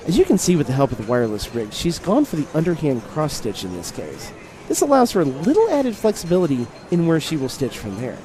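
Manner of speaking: lightly done sports announcer. Shown as a demonstration. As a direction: call it like a golf commentator. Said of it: "I gotta put on my announcer voice for this".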